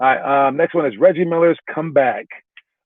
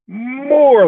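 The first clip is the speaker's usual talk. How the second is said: high, long-held exclamation; excited Lithuanian guy; 11 semitones higher, 4 dB louder than usual. Retold or imitated. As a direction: stretch the word high, urging a bigger guess. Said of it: "He's like".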